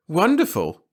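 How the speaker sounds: bright high burst of delight; glowing, lifted woman's voice; beaming with joy; radiant. A narrator's reading. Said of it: "she was radiant".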